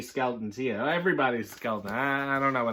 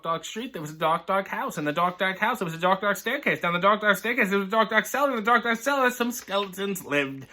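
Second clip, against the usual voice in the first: spooky story reading; 3 semitones higher than usual. Acted. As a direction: creep it up, dark after dark, then drop the punchline. Reads a spooky children's story.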